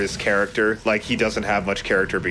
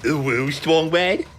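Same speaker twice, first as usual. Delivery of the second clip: Strong Bad voice; 7 semitones higher, slower than usual. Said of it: "an Awu voice".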